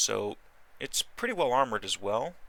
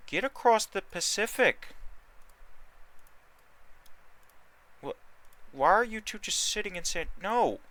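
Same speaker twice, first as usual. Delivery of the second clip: high, loud, fed-up yelling; exasperated scolding; 10 semitones higher, 5 dB louder than usual. Real, not acted. Player yelling at idle battleships, loud exasperated scolding. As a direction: scold the useless ships into moving.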